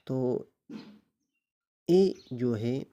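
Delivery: ordinary talk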